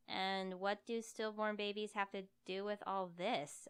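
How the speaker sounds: slow, careful question; hesitant, wary slow question; cautious. Acted. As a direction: ask it warily, slowly. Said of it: "if somewhat cautiously".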